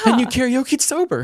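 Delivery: high laughing tease. Real, not acted. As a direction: laugh it out in disbelief. Teasing her friend, laughing.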